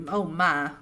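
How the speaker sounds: Gone with the Wind Southern accent; brief Southern belle impression; Scarlett O'Hara. Shown as a demonstration. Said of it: "more of a Scarlett O'Hara Gone with the Wind".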